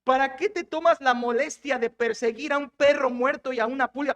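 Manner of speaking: lightly acted calling out; mild imitated shout. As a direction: call out the question, without full volume. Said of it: "David le grita".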